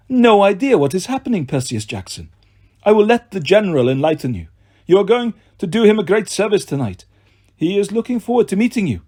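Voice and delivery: menacing villain voice. Acted. Villain Doctor Fawn speaks.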